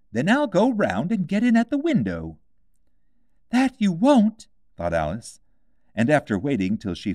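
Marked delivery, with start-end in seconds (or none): 0.1-2.4 high, anxious muttering rabbit; a nervous rabbit fussing to himself; fretful White Rabbit. A narrator's reading. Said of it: "say to itself". 3.5-4.5 put-on high, firm girlish retort; Alice refusing the rabbit; defiant Alice. A narrator's reading.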